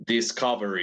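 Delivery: "Discovery" said clearly, as the correct English form; model pronunciation. Shown as a demonstration. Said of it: "Yeah, that's right".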